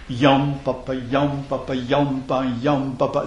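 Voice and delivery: "yam" stressed, "papa" light, the beat of a dactyl; rhythm syllables. Shown as a demonstration. Teacher sings out the stressed-unstressed pattern for the class. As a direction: chant "yam, papa, yam, papa" evenly. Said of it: "une syllabe accentuée au début du vers".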